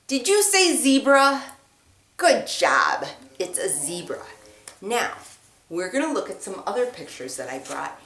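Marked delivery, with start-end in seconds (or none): 2.2-4.2 whisper. Real, not acted. Teacher whispering praise after the zebra answer. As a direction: breathe it, barely there.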